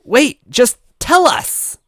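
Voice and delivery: high, loud, slow plea; pleading Toadette. Acted. Toadette begging the ghost, high and pleading. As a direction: beg him to stay. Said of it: "Toadette pleaded".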